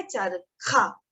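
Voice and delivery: चरखा drawn out slowly, strong air on kh; model word. Shown as a demonstration. Teacher asking students to try it. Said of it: "Try this".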